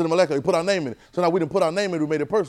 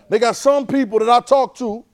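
shifted voice; 10 semitones higher, 9 dB louder than usual. Shown as a demonstration. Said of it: "See, my voice changed a little bit".

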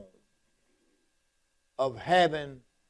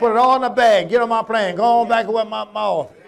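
mock fundraiser voice; 3 semitones higher, 8 dB louder than usual. Mocking fundraising preachers.

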